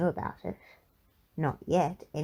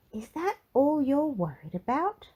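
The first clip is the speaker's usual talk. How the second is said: higher, lightly voiced lady, amused disbelief; Little Miss Splendid amused; 8 semitones higher than usual. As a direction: ask it with gentle surprise. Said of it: "asked Little Miss Splendid".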